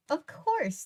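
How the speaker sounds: impatient. A narrator's reading. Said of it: "the woman said impatiently".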